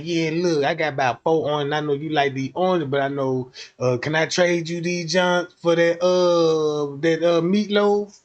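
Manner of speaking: low, gruff lunchroom hustler; deep kid trader voice. Retold or imitated. Kid trading oranges.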